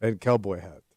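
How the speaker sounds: put-on Russian accent. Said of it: "Stop doing the goddamn accent".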